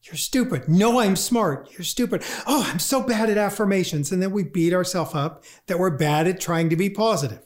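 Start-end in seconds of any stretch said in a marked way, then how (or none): 0.0-4.1 quick back-and-forth bickering with yourself; acted squabble ending in self-reproach; mock inner argument. Acted argument with one's own mind.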